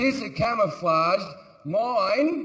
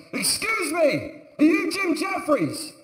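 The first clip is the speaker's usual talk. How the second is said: soldier; 9 semitones higher, slower than usual. Retold or imitated. Soldier voiced in a retold story.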